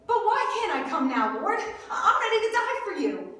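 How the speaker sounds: eager mock protest, rushing at the end; blurted back. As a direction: imitate an overzealous disciple, rising in pitch. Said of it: "then Peter blurts back".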